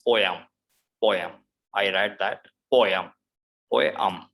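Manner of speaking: poem ending in um; I read that poem. Shown as a demonstration. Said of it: "it's um".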